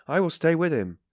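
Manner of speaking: loud, high, insistent cry; cried out. A narrator's reading. Razumikin to Raskolnikov's mother, crying out loudly. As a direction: burst in forcefully to take charge. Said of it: "cried Razumikin".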